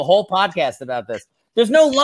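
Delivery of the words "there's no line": exasperated. Real, not acted. Argues with cohost.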